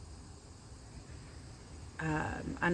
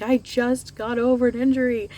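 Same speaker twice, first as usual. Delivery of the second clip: high, loud exasperated cry; re-live the moment of panic over the toe; recalling her despair at a fresh injury, high and loud; retold distress; 7 semitones higher, 8 dB louder than usual. Retelling her stubbed-toe panic.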